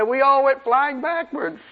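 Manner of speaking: high, slow demon lament with a laugh breaking through; mock wailing demon. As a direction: whine it out like a defeated demon. Preacher voices a frightened demon.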